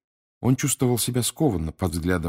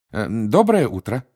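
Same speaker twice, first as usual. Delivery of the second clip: higher, louder, friendly hello; friendly greeting; 4 semitones higher, 5 dB louder than usual. A narrator's reading. Mr Weasley greets the Muggle at the door, friendly. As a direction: greet a stranger politely, lifting the pitch. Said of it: "приветливо произнёс мистер Уизли".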